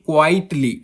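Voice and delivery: क्वाइटली with weight on क्वाइट; stress on first syllable. Shown as a demonstration. Teacher giving a dactyl example, stress on start of क्वाइटली. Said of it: "पहला दोस्तों stressed होता है".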